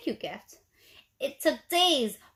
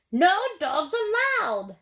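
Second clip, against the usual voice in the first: high, louder, slow yell; 6 semitones higher, 5 dB louder, slower than usual. A narrator's reading. Cactus yelling at the coyote, high and slow. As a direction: lay down the rule loudly. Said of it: "Hank yelled".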